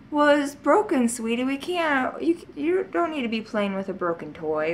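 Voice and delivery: put-on calm the crying child; soothing mom.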